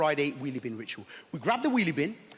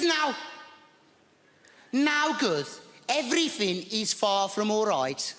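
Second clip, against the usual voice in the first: high, fretful Birmingham neighbour; lightly voiced flustered old lady; high, slow worried neighbour; Maud's voice; 5 semitones higher, much slower than usual. Maud voiced in neighbor story.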